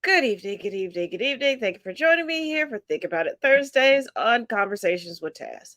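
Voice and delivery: stuffy congested voice; blocked nose. Real, not acted. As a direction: talk through a stuffed-up nose. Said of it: "I'm extremely, extremely congested".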